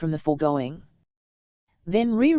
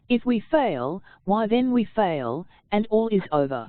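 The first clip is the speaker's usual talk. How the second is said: deep resolute tone. Shown as a demonstration. Lady Macbeth ending the question with calm resolve. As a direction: settle the issue with firm resolve. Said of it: "a deep, low, resolute tone".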